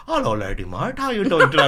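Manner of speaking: cheery put-on South Asian accent; friendly Asian accent. Telesales prank caller greeting a customer, friendly Asian accent. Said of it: "A really friendly Asian guy".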